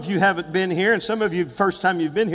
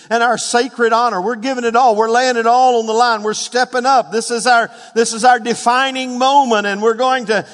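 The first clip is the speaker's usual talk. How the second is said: raised, insistent sermon climax; rally the congregation with fervent resolve; rousing preaching; 4 semitones higher, 3 dB louder than usual. Real, not acted.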